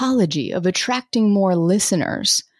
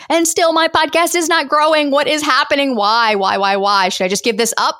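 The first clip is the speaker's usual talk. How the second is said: frustrated; 2 semitones higher than usual. Retold or imitated. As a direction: complain in rising despair, why why why. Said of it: "they're frustrated 'cause they're like".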